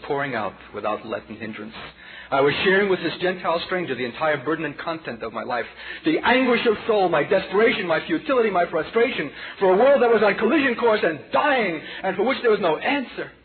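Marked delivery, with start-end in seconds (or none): 2.3-13.3 climbing higher and louder with each phrase, then a cry on Hopeless; rising impassioned outpouring. Acted. Preacher reliving his despair to the congregation, building to a high cry. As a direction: pour out the anguish until it breaks into a loud, high cry.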